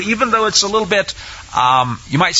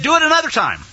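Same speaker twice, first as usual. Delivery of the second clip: acted command; 8 semitones higher, faster than usual. Acted order from Elijah.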